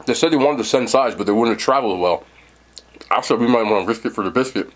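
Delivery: talking while chewing; mouth full. Real, not acted. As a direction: speak round a mouthful of brisket. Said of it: "I'm sorry for talking my mouth full".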